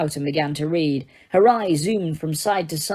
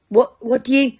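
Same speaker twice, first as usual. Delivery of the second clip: higher, louder brisk rebuke; snapped; 7 semitones higher, 3 dB louder than usual. A narrator's reading. Teacher scolding Harry sharply, brisk and stern. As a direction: snap back to stern teacher. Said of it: "snapped Professor McGonagall".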